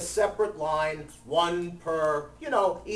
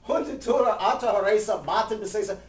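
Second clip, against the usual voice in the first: called back; 3 semitones higher than usual. Retold or imitated. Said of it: "He goes".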